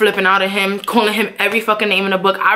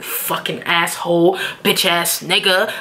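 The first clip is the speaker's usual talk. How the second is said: muttered cursing; 4 semitones lower, slower than usual. Retold or imitated. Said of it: "I can't stay quiet".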